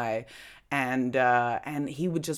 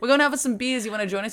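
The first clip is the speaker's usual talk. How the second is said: higher, upbeat retold invite; friendly invitation; 9 semitones higher, 4 dB louder, faster than usual. Asking difficult housemate out for beers, friendly invitation. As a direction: pitch it up, eagerly sociable.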